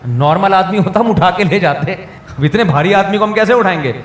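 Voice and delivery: put-on quoting the boys through a chuckle; a joking quote that breaks into laughter; laughing retelling. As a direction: tell the joke's punchline while laughing. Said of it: "اس بچے کہہ رہے ہیں".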